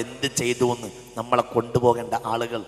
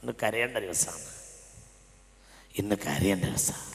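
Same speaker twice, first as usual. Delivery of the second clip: hushed plea; 3 semitones lower, 8 dB quieter than usual. Real, not acted. Repeated call, dropping to hush.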